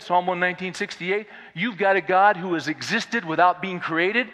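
loud, driving sermon climb; full-force preaching. Acted. Preacher driving the point home to his congregation, at full force.

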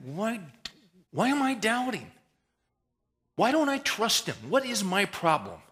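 loud, high self-reproach; angry at self. Retold or imitated. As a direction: shout at your own doubt. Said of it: "I think".

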